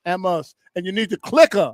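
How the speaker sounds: mock Massachusetts accent, dropped R's; New England accent, put on lightly; East Coast accent. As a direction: talk like a Massachusetts local. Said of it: "I learned how to talk to them".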